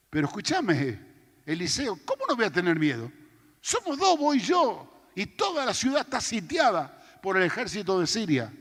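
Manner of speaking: panicked protest. Retold or imitated. Servant panics, arguing with prophet.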